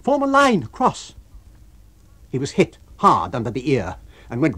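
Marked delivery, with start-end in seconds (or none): 0.0-1.1 loud, high order; shouting command. A narrator's reading. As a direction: bark the order to the crowd. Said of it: "he cried".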